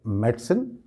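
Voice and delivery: "मेडिसिन" as MET-sen; "मेडिसिन" with no middle i; correct pronunciation. Shown as a demonstration. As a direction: say "मेडिसिन" in two syllables. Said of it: "इस तरह से ये".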